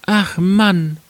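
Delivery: high-pitched woman character; wife voice, lamenting. Acted. Wife answering her husband, in a high lamenting voice. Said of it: "antwortete sie".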